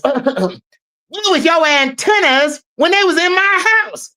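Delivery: channel Cat Williams scolding an intruder; a hint of Cat Williams dismissing someone; Cat Williams impression. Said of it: "In my Cat Williams voice".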